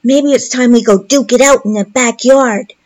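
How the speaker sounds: put-on kid voice daring a fight; mock a little boy picking a fight; lightly played bratty five-year-old; childish taunt. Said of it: "what adult speaks like that".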